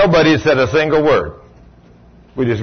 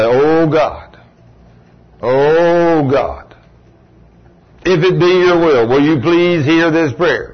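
mock begging prayer; 2 semitones higher, slower than usual. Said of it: "beg and plead and say".

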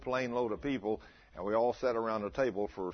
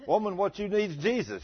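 preaching call; 7 semitones higher than usual. Retold or imitated. Preacher confronting the woman.

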